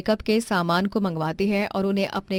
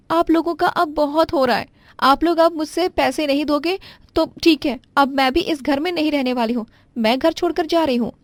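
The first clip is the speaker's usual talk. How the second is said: higher, louder threat to leave home; a young wife storming off, voice pitched up; indignant daughter-in-law; 7 semitones higher, 4 dB louder than usual. Acted.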